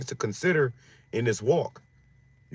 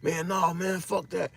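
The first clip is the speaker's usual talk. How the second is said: voice of the flesh; 6 semitones higher, 4 dB quieter, slower than usual. Retold or imitated. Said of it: "your flesh like".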